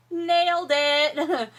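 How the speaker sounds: loud, slow sarcastic cheer; mock-proud cheer at a failure. Sarcastic praise of pumpkin.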